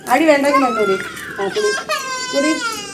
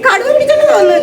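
mock scary warning; 12 semitones higher, 5 dB louder than usual. Scaring child with tiger.

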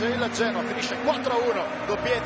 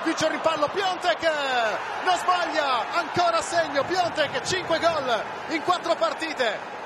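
excited goal call; 6 semitones higher, slower than usual. Real, not acted. Goal scored, live commentary.

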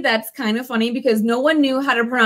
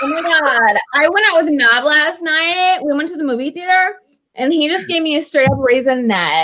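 put-on Valley Girl accent. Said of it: "Valley Girl accent".

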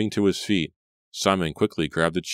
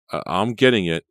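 higher, louder flustered stammer; 4 semitones higher, 7 dB louder than usual. A narrator's reading. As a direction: rush it out in fear. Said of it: "Simon stammered".

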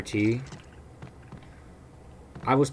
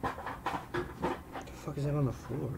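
hushed; 4 semitones higher, 9 dB quieter, much slower than usual. Real, not acted. Creeped out by something on floor.

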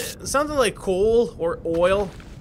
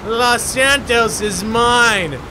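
villain declaration. Acted.

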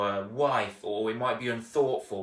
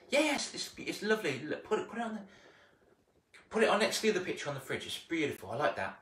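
higher, hurried brush-off; busy mum; 5 semitones higher, faster than usual. Retold or imitated. Busy mum hurrying the child off, higher. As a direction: rattle off the praise without looking.

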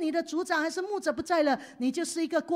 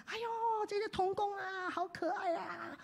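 soft, slightly higher fond sigh; fond soft prayer; 5 semitones higher, 8 dB quieter than usual. Retold or imitated. Pastor voices his fond prayer about the children. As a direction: say it softly with affection. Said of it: "或者说".

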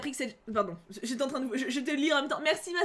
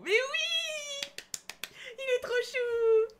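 much higher, slow, stretched-out swooning squeal; fangirl squeal; 12 semitones higher, much slower than usual. Real, not acted. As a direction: melt over your crush, near tears of joy. Fangirling over Nevra.

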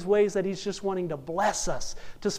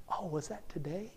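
much softer, casual brush-off; acted offhand forgetfulness; 14 dB quieter than usual. Forgetful date answers the man at her door, acted offhand and soft. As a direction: play her quiet and unbothered.

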